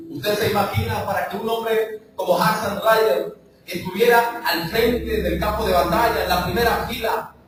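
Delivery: rising preacher fervor; preaching. Acted. Preacher building to a climax before the church.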